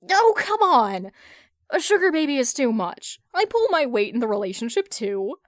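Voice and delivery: loud, high indignant whine; a loud, high offended protest against the verdict. Acted. Hal protests the sugar baby verdict.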